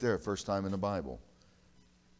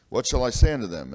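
Moses asking loudly; 3 semitones higher, 10 dB louder than usual. Acted. Moses asking God, read aloud.

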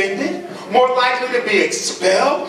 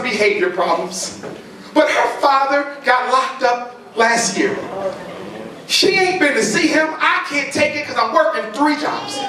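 pleading mother; 3 semitones higher than usual. Acted.

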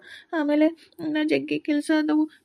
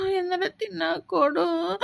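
crying plea; slower than usual. Acted. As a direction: beg for food through tears. Hungry boy begs stepmother. (ಅಳುತ್ತಾ ಬೇಡುವುದು)

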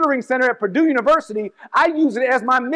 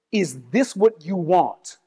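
slow, low, measured question; quote in own voice; 5 semitones lower, slower than usual. Retold or imitated. Retelling the bishop's question to the congregation in own voice, slowly. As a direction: ask it slowly, without doing an impression. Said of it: "say it in my own voice".

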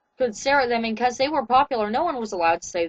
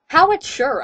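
sarcastically; 4 semitones higher, 4 dB louder than usual. Acted. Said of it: "I said sarcastically".

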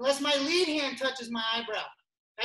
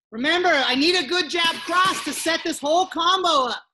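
calling out to class; 2 semitones higher, 6 dB louder than usual. Real, not acted. Coach calling over class.

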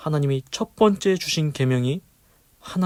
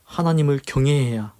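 earnest pastoral prayer, louder; 3 dB louder than usual. Acted. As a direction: pray aloud over the congregation. Closing prayer and exhortation.

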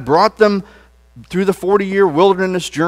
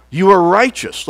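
leading a declaration; 2 semitones higher, 5 dB louder than usual. Shown as a demonstration. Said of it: "Let's say that".

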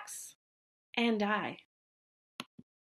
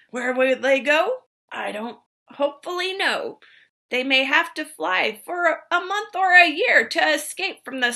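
high, loud creature announcing itself; Lorax voice; 4 semitones higher, 5 dB louder than usual. Acted. The Lorax confronts the Onceler, a high loud voice. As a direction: boom out the name, pitched up.

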